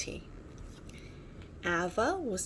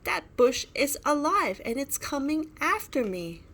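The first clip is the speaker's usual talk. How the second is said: frightened; 6 semitones higher, 4 dB louder than usual. A narrator's reading. Shay fleeing the bush monster.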